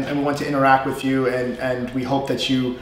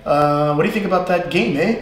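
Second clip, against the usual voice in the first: Canadian "eh" tagged on the end; lightly imitated Canadian, questioning "eh"; Canadian accent; faster than usual. Teacher joking about Canadians, mild Canadian accent. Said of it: "They'll say".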